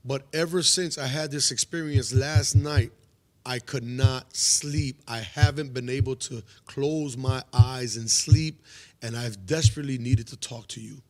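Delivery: slow, weighted, word by word; retold desperate confession. Troubled man confessing his sleepless night to pastor, slow and emphatic. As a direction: spell out a retold confession with heavy pauses.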